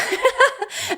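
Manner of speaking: high bright burst of laughter. Real, not acted. Mother reacting to listener's surprise at home birth, laughing.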